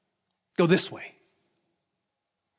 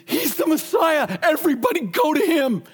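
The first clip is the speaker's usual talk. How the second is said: proclaiming shout; 7 semitones higher than usual. Retold or imitated. Preacher voices Jesus proclaiming Messiah.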